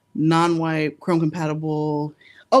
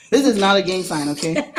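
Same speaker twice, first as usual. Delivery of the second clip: laughing denial; 3 semitones higher, 4 dB louder than usual. Real, not acted. Joking about hand sign.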